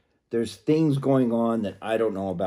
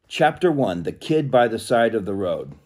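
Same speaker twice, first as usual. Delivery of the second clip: raised, projected book-reading voice; reading aloud; 4 dB louder than usual. Acted. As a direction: announce the chapter to listeners. Reads book chapter heading aloud.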